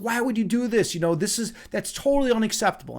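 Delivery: indignant reprimand, only half-yelled; retold screaming. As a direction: imitate an irate boss scolding. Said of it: "screaming at me".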